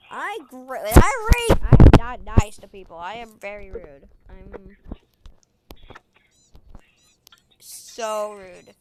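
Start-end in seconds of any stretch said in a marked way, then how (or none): 2.6-8.7 hushed whispered confession; soft whispered admission. Real, not acted. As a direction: whisper it like a secret.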